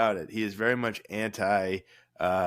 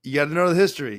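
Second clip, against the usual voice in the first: proud exclaim; 6 semitones higher, 7 dB louder, much faster than usual. Real, not acted. Proud reply to a compliment.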